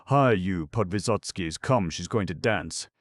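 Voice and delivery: loud call through a locked door. A narrator's reading. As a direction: shout to the men behind the door. Mitya calls through locked door.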